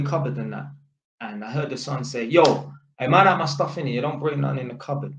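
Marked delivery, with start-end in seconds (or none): 2.2-5.1 brusque, slightly loud warning; borderline rude. Retold or imitated. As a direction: lay down the rule a touch rudely. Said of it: "it's the way he said it".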